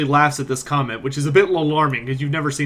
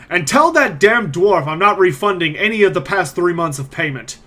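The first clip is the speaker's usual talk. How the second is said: a raised-voice parting yell; yelling after someone; 4 semitones higher, 7 dB louder than usual. Acted. Rolf yells after the departing Mikhail, yelling. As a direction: call out louder and higher. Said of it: "yells after you".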